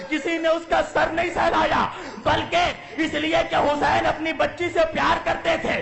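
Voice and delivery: rising lament, voice straining high; impassioned preaching. Acted. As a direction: cry it out to the mourners. Majlis preaching climax.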